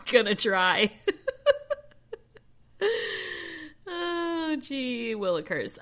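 high, loud outburst dissolving into laughter; flustered laughing. Real, not acted. Reader attempting to record Hebrew words, flustered and laughing. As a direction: laugh helplessly, then draw the words out slowly.

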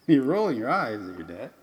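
playfully indignant, with swooping pitch; mock offended. Dad to daughter rolling her eyes at him, mock offended. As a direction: tease her with exaggerated disbelief.

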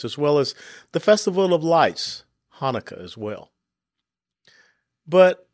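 deliberate oratory with weighty pauses; formal address. Real, not acted. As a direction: address the nation in measured, emphatic phrases. Solemn address to listeners.

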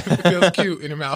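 giggling through the line; amused, laughing as you speak. Real, not acted.

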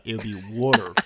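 water as wooder, Philly style, with an r at the end; Philly water, r kept; Philadelphia accent. Retold or imitated. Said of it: "In his regional accent, which is Philadelphia".

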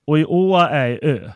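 patiently explaining in Värmland dialect. Retold or imitated. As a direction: say it plainly in dialect. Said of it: "Vad sa han?".

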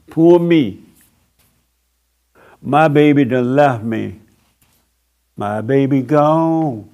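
hammed-up self-pity, slow at the end; mock lament. The preacher mocks a crier on their knees with hammed-up self-pity. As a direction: wail like a jilted lover, half-joking. Mocking a crying believer.

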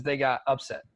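"upset" said UP-set, as for a sports surprise; stress on first syllable. Shown as a demonstration. Teaching the co-host the sports sense, stress on UP-set. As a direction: lean on the UP of "upset". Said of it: "the way that you should describe".

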